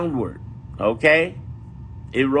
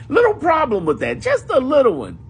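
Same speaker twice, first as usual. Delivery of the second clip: sarcastic; 9 semitones higher, 3 dB louder than usual. Real, not acted. Sarcastic understatement.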